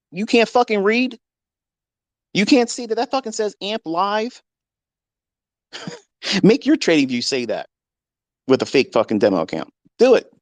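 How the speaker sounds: high, scornful yelling at critics; angry outburst. Real, not acted. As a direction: sneer at them, voice up high.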